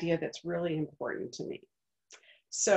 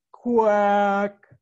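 louder, duck-like quack; duck's quack; 10 dB louder than usual. Acted. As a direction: quack back at the farmer. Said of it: "The duck answered".

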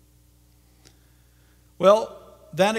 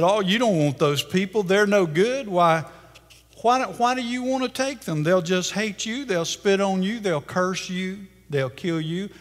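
urgent pleading; 5 semitones higher than usual. Acted. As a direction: urge him hard to walk away from the deal. Satan pleads against the deal.

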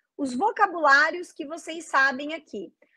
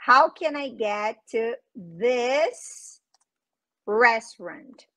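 asking a taxi driver; 2 semitones lower, much slower than usual. Retold or imitated.

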